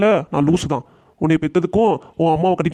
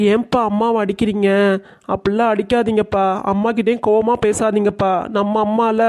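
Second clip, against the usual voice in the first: put-on a child begging dad to stop; little child voice; 2 semitones higher than usual. Child begs father not to hit.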